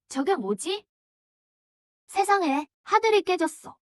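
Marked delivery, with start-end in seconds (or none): 2.1-3.8 stunned gasp of disbelief; shocked, voice lifting high; awestruck. Acted. Sky cracks open, awestruck.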